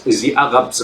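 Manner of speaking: put-on Israeli accent with a throaty r in Arabs; light Israeli accent imitation. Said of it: "in the Israeli accent".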